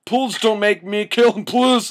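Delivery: high-pitched theatrical pleading; begging. Acted. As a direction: plead in a strained, hammed-up high voice. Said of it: "I begged".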